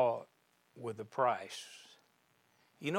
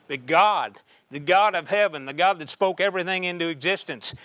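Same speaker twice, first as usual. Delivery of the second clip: rising preaching shout; 3 semitones higher, 7 dB louder than usual. Acted. Preacher building to climax.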